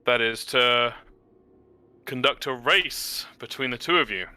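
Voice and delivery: pompous wise traveler. Acted. The speaker in character, pompous speech.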